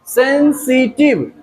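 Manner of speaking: सेंसिटिव slowly split, sen... si... tiv; slow teacher's breakdown of सेंसिटिव, sen, si, tiv; syllable by syllable. Shown as a demonstration. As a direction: stretch सेंसिटिव into three separate beats. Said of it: "three syllable".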